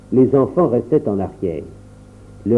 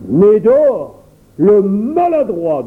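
indignation; 8 semitones higher, 4 dB louder, much slower than usual. A narrator's reading. Le papa apprend la mort du chien.

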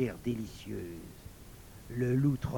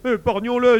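high, loud plea; pleading bear; 10 semitones higher, 13 dB louder than usual. A narrator's reading. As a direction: beg urgently for mercy. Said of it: "par pitié". (supplication aiguë de l'ours)

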